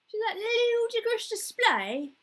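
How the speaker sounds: high, loud, drawn-out mock yell; football fan yelling. Imitating football fans yelling at the TV, exaggerated loud shout. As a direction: bellow it at the match on TV. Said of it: "yelling and, at the T V".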